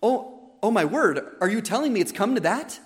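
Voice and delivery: mock-despairing grandma, incredulous questions; exasperated despair. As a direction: act out a dismayed grandma who can't believe it. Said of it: "she was in despair".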